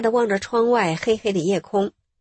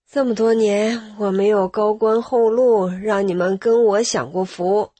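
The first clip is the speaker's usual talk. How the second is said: tearful despair. Retold or imitated. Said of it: "她哭了".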